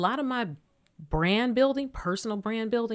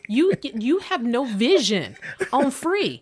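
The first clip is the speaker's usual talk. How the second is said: laughing emphasis; 5 semitones higher, 5 dB louder, slower than usual. Real, not acted.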